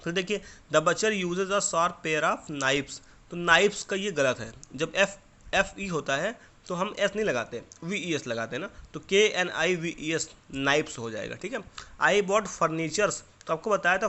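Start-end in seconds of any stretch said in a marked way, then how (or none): 0.7-3.0 very slow, each word set apart; slow dictation reading. Shown as a demonstration. Teacher reading the butcher sentence slowly to the pupils. 12.0-13.1 very slow and louder, each word drawn out; slow dictation reading. Shown as a demonstration. Teacher dictating the wrong sentence slowly to the class.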